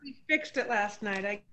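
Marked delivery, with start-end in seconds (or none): 1.2-1.4 broken-up call audio; audio cutting out. Real, not acted. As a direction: voice drops mid-word. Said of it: "Oops, we lost you again".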